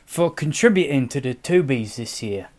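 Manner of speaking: put-on Cockney thank-you; Cockney accent. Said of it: "it's the only accent I can do".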